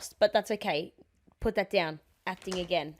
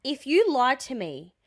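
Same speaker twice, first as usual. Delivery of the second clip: slow ultimatum; slower than usual. Acted. Acted ultimatum to cheating boyfriend.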